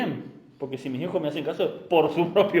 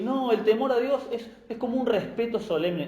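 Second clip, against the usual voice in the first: mildly scornful imitation of a lax believer; mocking quote; 6 semitones higher than usual. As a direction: parrot the modern idea, half-laughing. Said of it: "se ha metido esto de que".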